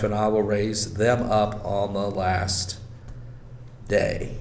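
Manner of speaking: measured, solemn Bible reading; scripture reading. Acted. Preacher reading the Gospel passage to listeners, solemn.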